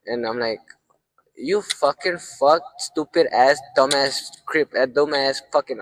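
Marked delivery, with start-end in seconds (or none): 1.3-5.8 retold roast, insults drawn out slowly; roasting him. Storyteller roasts his coworker over a girl, retold slow scolding. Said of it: "I was just roasting his ass".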